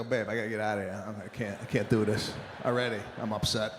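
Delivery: low, soft retold grumble; quietly upset, mock complaint to a partner; bothered. Husband wants out of class, bothered low grumble. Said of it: "I'm bothered".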